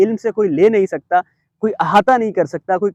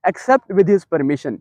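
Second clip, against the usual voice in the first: slow emphatic translation; 3 semitones lower, much slower than usual. Acted. Slow translation of key phrase.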